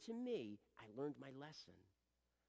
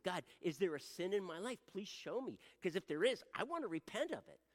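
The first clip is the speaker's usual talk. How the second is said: loud, higher, earnest plea; urgent pleading prayer; 4 semitones higher, 7 dB louder than usual. Shown as a demonstration. Man asking God to show him any sin, urgent pleading.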